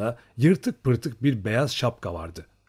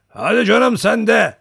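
loud, high, drawn-out disbelief; skeptical; 10 semitones higher, 9 dB louder than usual. A narrator's reading. Old man doubting a young Cossack's story, skeptical. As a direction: scoff slowly with raised voice. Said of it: "İhtiyar kuşkuyla".

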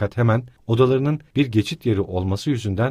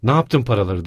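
loud angry question; bağırarak; shouted demand; 5 dB louder than usual. Acted. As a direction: yell at him. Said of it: "diye bağırdı kadın".

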